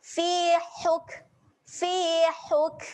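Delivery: "huk" pressed from the mid throat. Shown as a demonstration. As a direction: squeeze the h in "Fi huk". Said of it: "Kena tekan di tengah kerongkong". ("huk" ditekan di tengah kerongkong)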